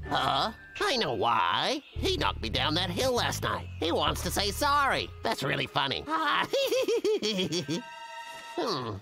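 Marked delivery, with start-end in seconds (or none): 6.1-8.5 pleased little laugh at his own plan; sneaky laugh. Acted. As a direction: chuckle mischievously. Plans a prank, amused.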